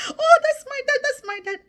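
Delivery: high breaking sob of recognition; tearful cry. Retold or imitated. Daughter seeing her father after weeks, high tearful cry. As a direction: let the voice crack into tears.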